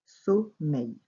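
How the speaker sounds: "Sommeil" split as "so", "mmeil"; syllable dictation. Shown as a demonstration. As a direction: say "Sommeil" with a gap between syllables. Teacher repeats word by syllables.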